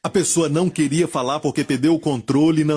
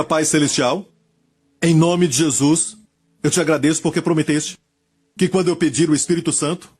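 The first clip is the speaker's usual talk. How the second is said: oração guiada. Real, not acted. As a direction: lead them phrase by phrase, pausing for repetition. Leads a repeat-after-me prayer. (oração pausada e enfática, frase por frase)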